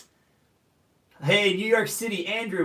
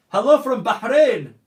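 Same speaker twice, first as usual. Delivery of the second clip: louder, higher hello; called greeting; 5 semitones higher, 9 dB louder than usual. Real, not acted. Reading live chat shout-outs.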